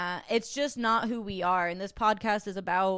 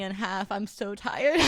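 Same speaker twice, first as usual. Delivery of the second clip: laughing; slower than usual. Real, not acted. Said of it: "I can't stop laughing".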